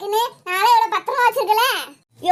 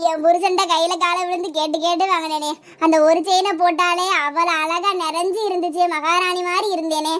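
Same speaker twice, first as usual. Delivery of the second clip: wailing lament. Acted. Wife mourns her stolen chain to everyone, wailing lament. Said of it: "சும்மா ஒப்பாரி வைக்காத".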